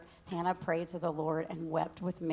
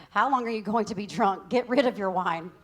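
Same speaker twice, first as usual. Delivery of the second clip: scolding priest; 2 semitones higher, 6 dB louder than usual. Acted. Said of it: "Eli thought she was drunk and said".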